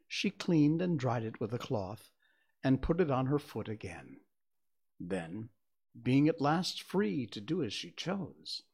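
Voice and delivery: measured, expressive storybook reading; story narration. A narrator's reading. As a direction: read it aloud as a storyteller, phrase by phrase. Reads a story aloud.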